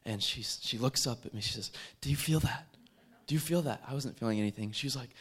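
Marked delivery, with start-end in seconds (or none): 2.0-3.8 raised, louder, urgent question; retold amazement, pitched up; startled asking. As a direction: ask it as if suddenly feeling something strange. Woman startled at bus stop, retold.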